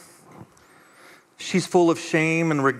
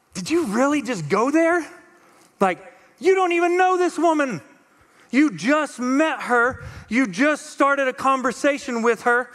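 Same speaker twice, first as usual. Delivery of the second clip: incredulous, mock-scolding tone, pitched higher; dripping sarcasm, a bit higher; sarcastic; 5 semitones higher than usual. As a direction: ask it like you can't believe he went there. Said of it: "read it with a little bit of sarcasm".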